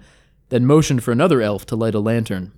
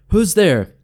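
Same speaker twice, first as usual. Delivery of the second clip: calling out into the dark, louder; a raised call across the hill; 8 semitones higher, 5 dB louder than usual. A narrator's reading. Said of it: "the elf called".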